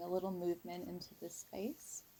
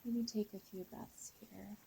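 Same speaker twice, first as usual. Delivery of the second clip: guided meditation. Real, not acted. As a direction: ease listeners into a calm visualization, unhurried. Leads a guided visualization.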